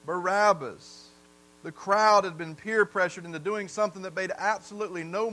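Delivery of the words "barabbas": drawn out, weighing the name; slow down and let the name hang; slow heavy repeat. Acted. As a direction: somber slow echo. Preacher repeats crowd's answer.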